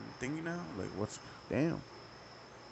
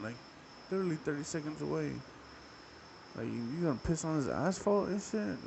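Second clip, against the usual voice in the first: incredulous rant; 5 semitones higher than usual. Retold or imitated. Ranting at the stranger in disbelief.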